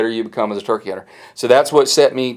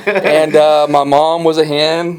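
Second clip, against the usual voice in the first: laughing joke; 6 semitones higher, 4 dB louder than usual. Acted. Joking he hatched as a turkey.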